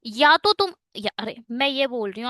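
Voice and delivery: ordinary talk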